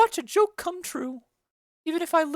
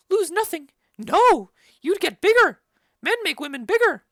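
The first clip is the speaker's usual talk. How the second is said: bawdy outburst; 7 dB louder than usual. Acted. Nurse interrupts Lady Capulet with a loud bawdy joke. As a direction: crow it out like a rude joke.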